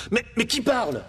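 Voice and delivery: high, startled stammer; startled cry. Acted. Aladdin hears a voice in the dark cell, startled cry. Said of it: "cria Aladdin".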